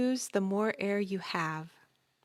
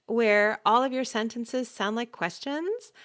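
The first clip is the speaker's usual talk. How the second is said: "questions" lifted in a rise, as if asking; questioning uptalk; 3 semitones higher, 4 dB louder than usual. Shown as a demonstration. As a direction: end the statement on "questions" like a question. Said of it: "Unless you're winging it".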